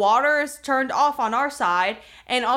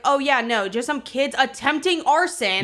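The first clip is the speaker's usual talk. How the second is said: mock agreement, mildly incredulous; retold sarcastic comeback; sarcastic echo; 2 semitones higher than usual. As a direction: echo their excuse with light sarcasm. Sarcastic echo of the neighbours' excuse.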